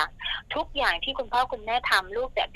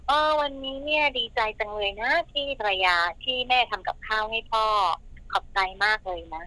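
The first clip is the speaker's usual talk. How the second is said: kind praise. Shown as a demonstration. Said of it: "สามีก็อยากจะบอกว่าแบบ".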